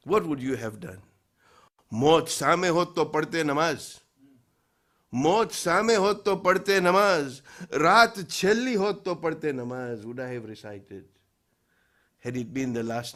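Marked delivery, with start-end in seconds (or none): 1.9-10.1 rhythmic declaimed verse; poem recitation. Acted. Preacher asks if you would have prayed, poem recitation. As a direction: recite each line as a pointed question.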